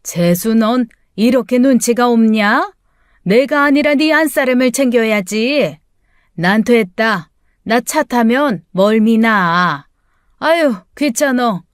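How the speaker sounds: put-on mildly irritated older mother's scolding; angry scolding. Mother-in-law scolding her son over his lack of tact, mildly angry. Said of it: "막 화를 내는 거였습니다".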